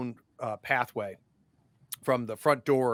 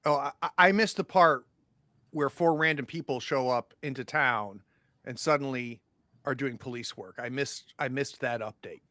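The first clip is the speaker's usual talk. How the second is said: sarcastic father. Acted. Father mocks the investigators.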